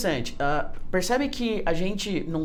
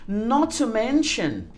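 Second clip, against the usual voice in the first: slow model phrase; 4 semitones higher, 3 dB louder, slower than usual. Shown as a demonstration. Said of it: "lembra disso?".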